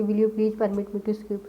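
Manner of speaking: slow, word by word for notes; teacher dictating slowly; slow dictation. Shown as a demonstration. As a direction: dictate it slowly so they can write. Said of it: "आप ये लिख सकते हो कि".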